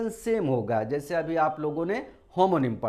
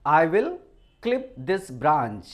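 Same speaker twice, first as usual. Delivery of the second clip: opening "I will" a bit louder, then "clip this branch" very slow; slow dictation; 3 dB louder, much slower than usual. Shown as a demonstration. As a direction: read it word by word for notes. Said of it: "मैंने sentence क्या लिया हुआ है". (धीरे-धीरे लिखवाने वाली आवाज़ में)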